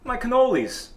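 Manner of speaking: high-pitched mock outrage; indignant retort. Angry customer dismisses the counter kid's excuses, indignant. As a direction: cut the kid off, voice jumping up.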